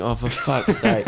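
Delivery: slow, laughing groan of exasperation; exasperated. Retold or imitated. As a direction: let it out slowly, fed up. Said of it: "I'm just sitting in the back going".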